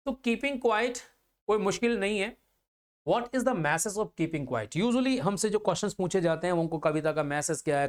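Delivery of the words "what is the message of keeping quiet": each word spaced out slowly for note-taking; slow, careful dictation to students. Shown as a demonstration. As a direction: dictate it slowly so they can write. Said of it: "dictating notes slowly".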